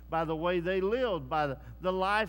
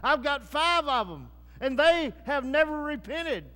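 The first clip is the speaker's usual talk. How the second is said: 1 mild mock plea; 6 semitones higher, 7 dB louder than usual. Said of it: "He said".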